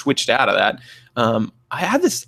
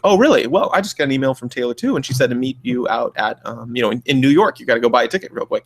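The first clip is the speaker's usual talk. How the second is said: mock clinician test. Clinician testing a delusional patient, mock-eager play-along. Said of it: "you're like".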